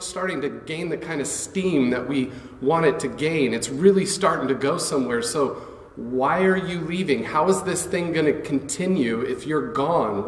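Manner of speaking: lightly voiced, anxious disciples asking why; a hint of worried followers pleading; puzzled followers. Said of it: "Questions like".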